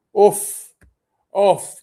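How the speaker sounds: frantic shout at the defence; urgent shout. Real, not acted. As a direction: yell at the screen to get it away. Fan urging ball cleared.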